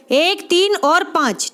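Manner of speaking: slow, deliberate, each number spaced; teacher drilling students on the numbers to memorise; slow drill repeat. Shown as a demonstration. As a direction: count it out slowly so it sticks. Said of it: "एक, तीन और पाँच आपके आ जाना चाहिए".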